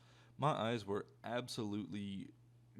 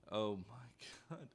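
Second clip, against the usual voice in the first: laughing; much slower than usual. Real, not acted. Storyteller cracks up recalling class.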